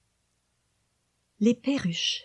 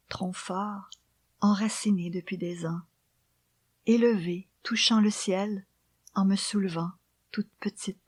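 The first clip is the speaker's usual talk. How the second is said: poem recitation. Acted. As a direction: read the poem gently, almost whispered.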